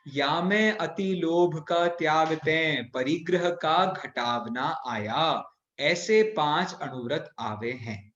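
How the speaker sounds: measured, chanting read of verse; slow scripture recitation. Acted. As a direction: read the old text slowly, deliberately. Reciting scripture text slowly.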